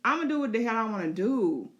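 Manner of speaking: high, brash, defiant dragon voice; the dragon refusing orders; cocky beast brushing off rider. Pretend. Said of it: "Sheep Stealer say".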